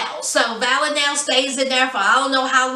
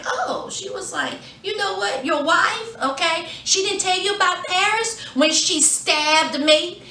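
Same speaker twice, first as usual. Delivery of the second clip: smug taunt; 5 semitones higher than usual. Retold or imitated. Valinell taunting Nico smugly.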